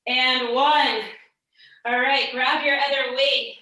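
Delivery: strained, effortful mid-workout voice; shaking with effort. Real, not acted. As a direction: push the words out through the exertion. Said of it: "I'm definitely working up a sweat here".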